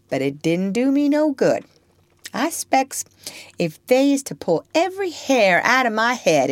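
put-on high-pitched child in Southern dialect; impish Topsy. Child tells master nothing ever cured her, impish. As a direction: brag of your naughtiness in a mischievous child's voice.

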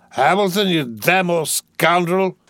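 put-on roaring drunkenly. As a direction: bellow it like a tipsy young lord. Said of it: "he roared".

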